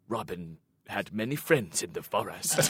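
animatronic voice. Retold or imitated. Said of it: "bad old animatronic people going like".

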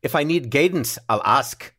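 lightly attempted Scottish accent. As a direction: have a go at a shaky-authentic Scottish accent. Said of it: "my Scottish accent sounds very similar".

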